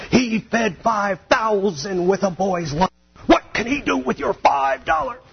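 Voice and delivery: a preacher demo mocking the guilt trip, in a booming high voice; fired-up preacher. Shown as a demonstration. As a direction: whip the crowd up from the pulpit. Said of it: "This is where the preacher gets fired up".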